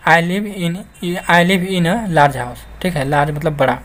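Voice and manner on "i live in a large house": very slow, word by word; slow dictation; slow reading. Shown as a demonstration. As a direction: read the example for learners. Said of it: "teacher rereads example sentence".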